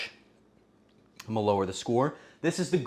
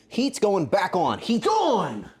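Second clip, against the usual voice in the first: excited announcement; 6 semitones higher, 3 dB louder, slower than usual. Real, not acted. Announces turning stove on.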